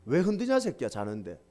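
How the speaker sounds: a hint of a gruff dad woken up, dropping low; mildly grumbling at being shaken awake; father scolding his son for waking him; grumpy father. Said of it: "우리 아버지가 그래야 되는데".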